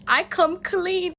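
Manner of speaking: high, slow, rattled confession; panicked confession. Retold or imitated. Confessing to her mentor, rattled and pleading. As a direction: blurt it out as if cornered. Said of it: "I'm freaking out".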